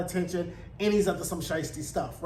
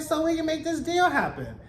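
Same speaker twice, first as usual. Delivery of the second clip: mock smooth male voice; 7 semitones higher than usual. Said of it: "He's like".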